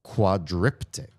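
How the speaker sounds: quadriptych said slowly, syllable by syllable; careful pronunciation. Shown as a demonstration. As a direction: sound out quadriptych as a new word. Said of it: "is called a".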